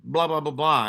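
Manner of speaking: mock instructor yell. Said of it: "they start yelling and screaming".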